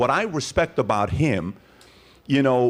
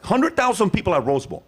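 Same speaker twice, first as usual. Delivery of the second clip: crowd reaction; 9 semitones higher, 4 dB louder than usual. Acted. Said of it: "We were all like".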